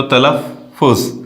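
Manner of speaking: तलफ़ुज़ with the फ़ held long and doubled, tal-laf-fuz; doubled f sound. Shown as a demonstration. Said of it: "फ़े की आवाज़ double करना है". (तलफ़ुज़ में फ़ की आवाज़ दोहरी, खींचकर)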